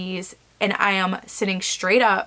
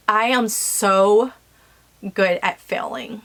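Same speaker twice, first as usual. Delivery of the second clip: getting emotional. Real, not acted. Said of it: "I'm getting emotional".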